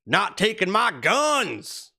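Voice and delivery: a hint of the tobacco-chewing Trump supporter; redneck impression. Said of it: "who talks like this with chewing tobacco in his mouth".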